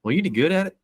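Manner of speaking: high, earnest question; quoting uncle Mark. Retold or imitated. Uncle asking the singer if he did good, high and earnest. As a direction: ask it innocently. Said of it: "he looked over at him and he goes".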